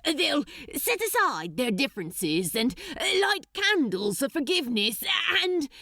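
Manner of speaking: high, fast hopeful pleading; desperate plea. Acted. Crowley pleading to the archdemon, high and rushed. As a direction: rush the argument out. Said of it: "tried again desperately".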